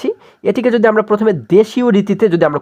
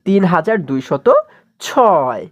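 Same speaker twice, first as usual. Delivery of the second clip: slow number reading; much slower than usual. Shown as a demonstration. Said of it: "আমরা পড়তে পারি এটিকে কীভাবে".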